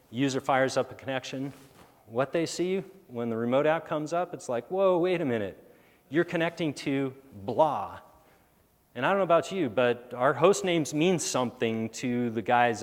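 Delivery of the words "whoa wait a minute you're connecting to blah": surprised. Retold or imitated. User reacts to odd host name.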